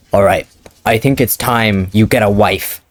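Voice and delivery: a hint of a stern Viking dad; calm, grave fatherly order; stoic father. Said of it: "getting into character".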